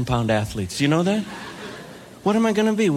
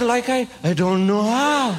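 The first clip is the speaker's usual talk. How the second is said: lightly mimicked slow, higher surfer speech; mimicked surfer talk; 4 semitones higher, slower than usual. Newcomer answers California surfer, lightly copying his talk. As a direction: answer in a hint of surfer drawl.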